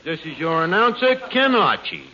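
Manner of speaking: hammed-up variety show announcer; old radio show. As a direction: announce the act with showman flair. Mock music hall announcer.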